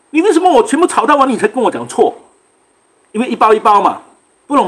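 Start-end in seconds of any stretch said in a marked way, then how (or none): 0.1-2.1 high-pitched imitated outburst; exasperated mock protest; angry complaint. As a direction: retell the cook's indignant demand, voice pitched up. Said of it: "哦，他气了".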